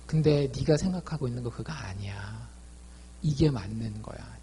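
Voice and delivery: whispered, gentle correction; kind explanation. Retold or imitated. God gently correcting a bitter Sarah, whispered and kind. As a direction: hush it like a kind parent setting a child straight. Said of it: "친절하게 찾아오셔서".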